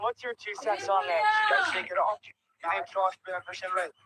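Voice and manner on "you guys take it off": shouting. Real, not acted. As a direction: call it out to the others. Calling out to others on boat.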